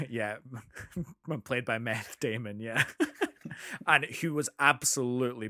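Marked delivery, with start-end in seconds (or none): 1.4-2.6 laughing. Real, not acted. Joking about Matt Damon's name.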